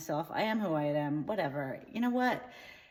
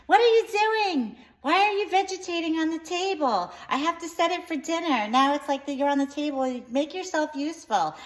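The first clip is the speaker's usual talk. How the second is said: much higher and louder, screaming mother; mom screaming; 9 semitones higher, 7 dB louder than usual. Retold or imitated. Mom screaming at her kid on the table, high loud yell. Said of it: "my mom screamed".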